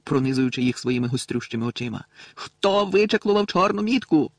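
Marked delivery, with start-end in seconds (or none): 2.3-4.3 higher, slow furious demand. A narrator's reading. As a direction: drive the question home angrily. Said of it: "гаркнув він". (розлючений, повільний допит)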